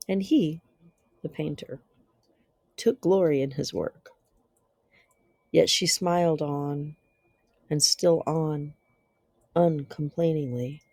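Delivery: measured, dramatic reading with long pauses; gothic story narration. Acted. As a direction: narrate a dark classic tale, letting phrases hang. Reads a Gothic tale aloud.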